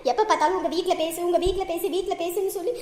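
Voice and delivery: exasperated wife blaming her husband; angry outburst. Acted. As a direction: pour out the blame crossly. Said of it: "சரி, நீ கோவமா இருக்க". (கணவன் மீது கோபமாகப் பொரிதல்)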